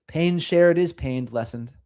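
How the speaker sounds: slow, measured singsong saying; sing-songy. Real, not acted. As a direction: lilt it slowly like a memorable motto. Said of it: "say things in the sing-songy way".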